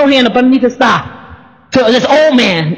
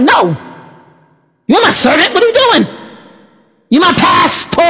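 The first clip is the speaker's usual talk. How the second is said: playful protest; 5 semitones higher than usual. Retold or imitated. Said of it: "I was like".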